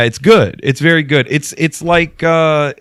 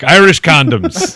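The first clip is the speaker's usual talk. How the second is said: mock ad slogan; 3 semitones higher, 4 dB louder, slower than usual. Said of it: "fake commercials".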